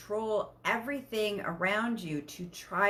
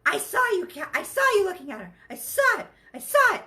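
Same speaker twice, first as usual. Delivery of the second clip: rising to a much higher, louder accusing cry; jealous accusation; 8 semitones higher, 6 dB louder than usual. Retold or imitated. Jealous partner accusing the other of looking, higher and louder. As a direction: catch the partner out and build to a shrill pitch. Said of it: "first reaction is jealousy".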